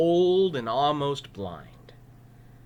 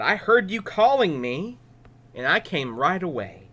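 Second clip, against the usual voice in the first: put-on higher, earnest boy; eager child explaining; young boy's voice; 6 semitones higher, 4 dB louder than usual. Boy Samuel to Eli.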